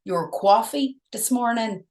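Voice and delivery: slow, drawn-out New York "coffee"; New York accent. Shown as a demonstration. Host shows off her clever line to co-host, New York accent. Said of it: "New York".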